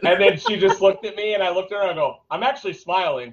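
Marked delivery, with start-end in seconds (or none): 2.3-3.3 laughing. Retold or imitated. Retold store moment, laugh heard.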